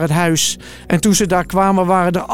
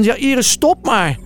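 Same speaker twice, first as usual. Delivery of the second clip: urgent messengers; 5 semitones higher than usual. Acted. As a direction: break the bad news with urgency. Boodschappers melden dood dochtertje. (hogere, langzame dringende boodschap)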